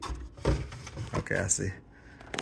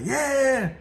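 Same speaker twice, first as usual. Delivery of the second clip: imitated eager kid, much higher pitched; Tim Junior; 13 semitones higher than usual. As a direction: mimic a child's drawn-out high cheer. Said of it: "Tim Junior gonna be the one".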